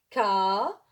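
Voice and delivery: "Camarade" said slowly and clearly as ka-ma-rade; slow model pronunciation. Shown as a demonstration. Teacher models the word for Arabic-speaking pupils, clear and careful. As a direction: sound out "Camarade" syllable by syllable. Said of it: "Il faut prononcer le mot, euh, étape par étape".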